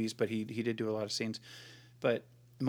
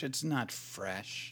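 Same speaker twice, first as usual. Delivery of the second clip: normal talking voice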